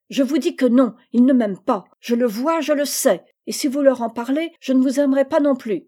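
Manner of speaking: put-on a spoiled girl throwing a fit at her mother; angry tantrum. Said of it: "Gisèle avec colère et tapant du pied".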